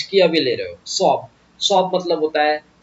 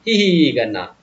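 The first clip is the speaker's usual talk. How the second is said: giggle sound; 4 semitones lower than usual. Shown as a demonstration. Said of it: "ऐसा हंसना".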